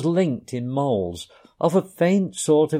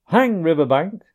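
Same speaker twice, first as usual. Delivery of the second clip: hearty retort; 8 semitones higher, 4 dB louder than usual. A narrator's reading. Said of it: "said the rat heartily".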